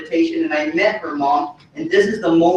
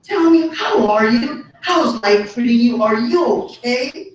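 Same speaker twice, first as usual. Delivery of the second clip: a hint of Dad, higher and drawn out; slow, higher-pitched imitation of a father checking in; lightly voiced father; 4 semitones higher, slower than usual. Father asking his son how life is, lightly imitated and slow. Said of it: "he would say".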